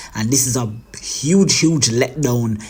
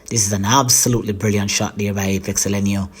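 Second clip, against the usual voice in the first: quick, lightly voiced commentary; golf commentator; 3 semitones lower, faster than usual. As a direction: praise the shot like TV golf. Commentator praises the shot.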